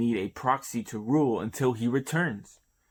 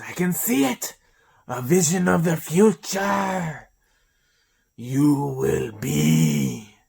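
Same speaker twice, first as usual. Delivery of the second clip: higher and louder seer crying out; ecstatic prophecy; 4 semitones higher, 7 dB louder, slower than usual. Acted. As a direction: proclaim the vision like a possessed oracle. Seer proclaims a vision.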